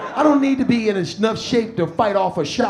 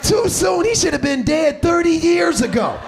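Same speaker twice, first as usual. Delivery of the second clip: incredulous outburst; 4 semitones higher than usual. Retold or imitated. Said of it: "I'm like".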